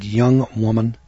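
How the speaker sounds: slow, drawn-out mock-caustic retort; caustic sarcasm. Wife rebuffing the cashier's small discount, caustic and slow. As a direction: imitate a ticked-off customer, measured and pointed, dragging out the last words. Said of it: "kind of with a caustic, sarcastic tone in her voice".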